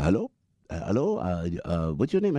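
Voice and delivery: mock Pakistani-Muslim driver accent; bad Muslim accent. Driver greeting his passenger, in a mock Pakistani accent. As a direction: put on a rough Pakistani accent. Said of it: "That's my really bad Muslim accent".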